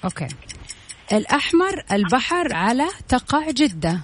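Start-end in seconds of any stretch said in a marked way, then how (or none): 1.1-4.0 words in reverse order, slow; backwards speech. Shown as a demonstration. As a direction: read the sentence backwards, deliberately. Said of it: "حقول جملة بالمقلوب".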